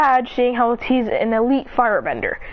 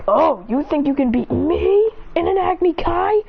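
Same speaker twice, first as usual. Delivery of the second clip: incredulous, higher-pitched challenge; mocking taunt; 5 semitones higher than usual. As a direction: scoff at the challenger, rising at the end.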